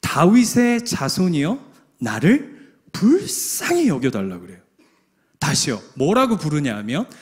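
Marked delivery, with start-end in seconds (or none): 0.0-4.4 a mild pleading call for mercy; pleading cry. Acted. Preacher voicing Bartimaeus crying to Jesus, lightly pleading. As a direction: call out to him, begging. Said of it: "뭐라고 부르짖냐면 이렇게 얘기해요".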